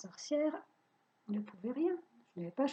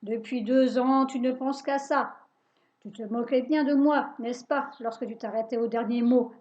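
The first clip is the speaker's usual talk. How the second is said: louder, spiteful witch; gloating witch; 4 dB louder than usual. Acted. Witch telling the boy she waited for this, louder. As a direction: savour your revenge.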